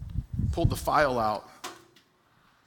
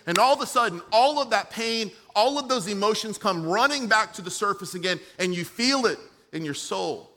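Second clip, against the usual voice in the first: higher, driving sermon delivery; impassioned preaching; 7 semitones higher, 4 dB louder than usual. Real, not acted. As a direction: build the list with urgency, pitched up. Preaches with rising intensity.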